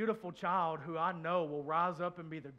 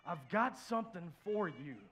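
tender voice of God; 2 semitones higher, 5 dB louder than usual. Retold or imitated. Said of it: "He said".

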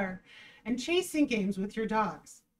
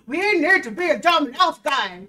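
mocking laugh; 4 semitones higher, 10 dB louder than usual. Real, not acted. Mocking the advice while laughing.

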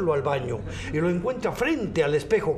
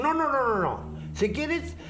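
higher maid voice; 8 semitones higher than usual. Acted. Maid refuses.

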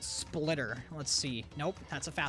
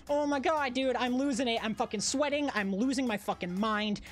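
high, laughing, losing it; manic laughing; 6 semitones higher than usual. Real, not acted. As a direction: crack up, half unhinged.

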